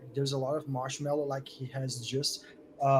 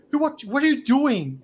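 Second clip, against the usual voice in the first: higher, louder angry challenge; pissed off; 10 semitones higher, 11 dB louder than usual. Acted. Bully turns on the two who hit him, pissed off. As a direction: demand an answer, pissed off. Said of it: "he's pissed off right now".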